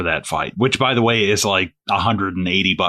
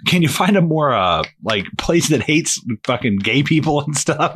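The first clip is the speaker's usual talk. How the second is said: mock comic rant; 5 semitones higher than usual. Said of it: "he's like".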